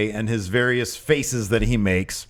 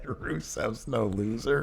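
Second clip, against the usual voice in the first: Austrian-sounding mock accent; 8 dB quieter, slower than usual. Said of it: "That's the wrong accent again".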